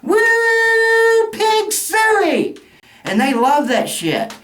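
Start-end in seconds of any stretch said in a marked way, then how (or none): 0.0-2.6 mock hog call. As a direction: whoop it up like a hog-calling fan. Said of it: "who the hell goes".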